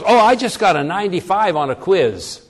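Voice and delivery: mock-proud dodge with an emphatic "Oh"; hint of a daughter announcing a quiz score; daughter's evasive reply. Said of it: "her daughter says".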